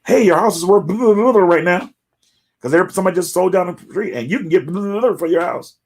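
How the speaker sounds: high, loud salesy sing-song; mock real estate mailer pitch; mock realtor pitch. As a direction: ham up the eager realtor. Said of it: "I have been getting mail".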